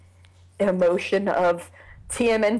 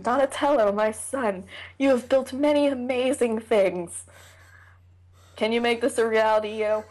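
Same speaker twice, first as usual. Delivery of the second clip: a hint of a stately father; measured mock-solemn address to a son; lightly voiced Splinter; 3 semitones higher, 3 dB louder than usual. Father asking his son to build something, mock-solemn. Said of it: "I can just imagine that conversation".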